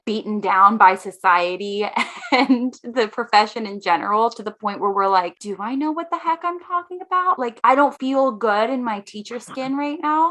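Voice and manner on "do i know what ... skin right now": higher-pitched voice of mock self-doubt; lightly acted insecure questioning. Teacher voicing imposter syndrome to herself, self-doubting. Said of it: "we so often have that imposter syndrome".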